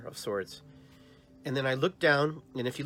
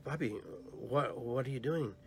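stunned and slow; 4 dB quieter than usual. Retold or imitated. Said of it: "frozen in my dream".

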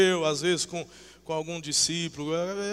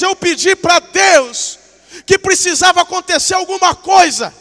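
desperate insistence; 10 semitones higher, 15 dB louder than usual. Acted. Jacob gripping the angel and begging, desperate shouted plea. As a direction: cry out and refuse to let go. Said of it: "ele agarra o anjo e fala".

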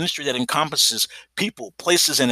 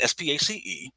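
spelling out; 6 dB quieter than usual. Shown as a demonstration. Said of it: "Space always capitalized".

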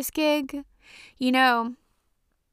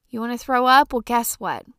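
scolding; 2 semitones higher, 7 dB louder than usual. Real, not acted. Scolding the sick kids.

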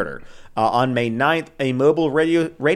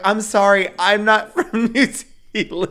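flustered apology; 8 semitones higher, 3 dB louder than usual. Retold or imitated. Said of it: "and I was like".

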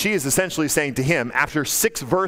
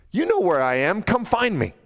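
lightly teasing, lifting higher at the end; playful teasing; 5 semitones higher than usual. Retold or imitated. Solomon teasing his wife who is looking for him, playful. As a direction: toss out a playful dare. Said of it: "He is teasing her, having fun with her".

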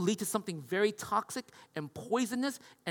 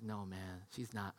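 grandpa's reply; 11 semitones lower, 16 dB quieter than usual. Retold or imitated. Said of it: "He says".

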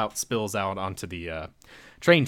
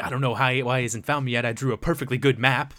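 puzzled villain; 4 semitones higher, 4 dB louder than usual. Retold or imitated. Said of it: "he's talking like".

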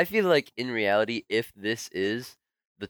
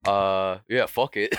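offhand, lightly done celebrity impression; a hint of a rapper's casual talk; Kanye West; slower than usual. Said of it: "is that your Kanye impression?".

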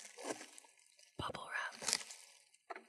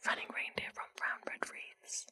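fast whisper. Shown as a demonstration. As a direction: rattle off the tongue twister. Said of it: "I think I could do that fast".

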